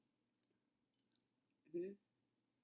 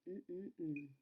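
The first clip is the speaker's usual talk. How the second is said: mouth full; 5 dB quieter than usual. Real, not acted. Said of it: "Sorry, I'm eating".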